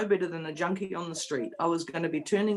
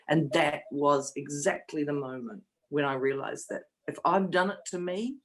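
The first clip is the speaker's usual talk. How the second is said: a real cry catching in the voice; fighting back tears mid-sentence; tearful. Real, not acted. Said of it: "we get a bit emotional".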